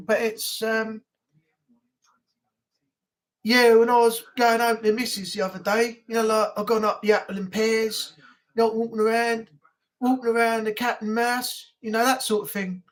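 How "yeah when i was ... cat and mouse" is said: light attempt at Cockney; casual Cockney chat in rhyming slang; lightly put-on London Cockney; Cockney accent. Shown as a demonstration. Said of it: "Cockney rhyming slang".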